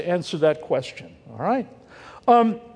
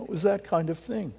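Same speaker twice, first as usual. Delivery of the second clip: breathy unvoiced aside, much softer; whisper; 8 dB quieter than usual. Real, not acted. Preacher whispers to the congregation after the sad story, whispered. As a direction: drop to a hushed whisper.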